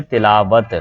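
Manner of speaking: तिलावत as ti-laa-wat, short i first; correct pronunciation demo. Shown as a demonstration. Teacher showing the vowel mark, careful demo of तिलावत as ti-laa-wat. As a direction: slowly sound out तिलावत with an i after t. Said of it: "इसके नीचे ज़ेर आती है".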